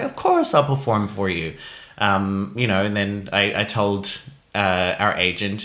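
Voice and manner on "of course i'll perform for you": eager yes. Retold or imitated. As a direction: gush it, big and eager. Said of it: "I'm like".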